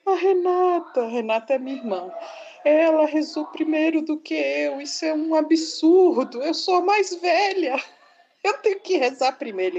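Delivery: put-on whiny little girl. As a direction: whine like an offended older sister. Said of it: "a voz".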